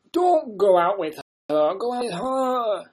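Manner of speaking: the head voice overruling you, slowly; lightly voiced Scottish adviser; inner Scottish voice. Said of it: "the voice comes in my head".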